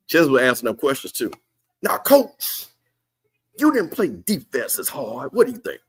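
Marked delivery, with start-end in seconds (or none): 1.8-5.8 mock reporter. Mock reporter asking coach.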